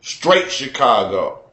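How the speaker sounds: slowed, drawn-out Chicago vowels; slow Chicago twang on "Straight Chicago"; slow Chicago drawl. Shown as a demonstration. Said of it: "That's how we talk".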